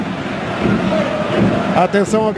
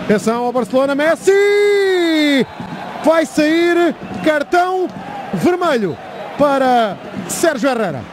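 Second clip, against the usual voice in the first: shouted commentary; 3 semitones higher, slower than usual. Real, not acted. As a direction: shout the red card. Red card call, shouting.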